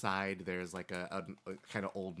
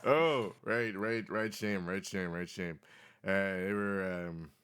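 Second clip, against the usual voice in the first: put-on very old man. Old man tells local legend.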